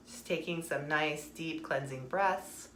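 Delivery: slow, softened meditation voice; guided meditation. Acted. Guiding listeners to find their center, slow meditation voice. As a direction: ease them slowly into stillness.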